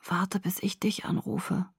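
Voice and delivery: slow, whispered instruction; weak whisper. A narrator's reading. Sick boy tells her to wait for his call, whispering. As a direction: insist without any strength in the voice. Sick friend insists on phone.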